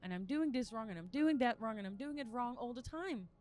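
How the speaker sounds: raw confession. Shown as a demonstration. Demonstrating truth-telling to God, frustrated and distrustful. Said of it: "just be truth-telling, like".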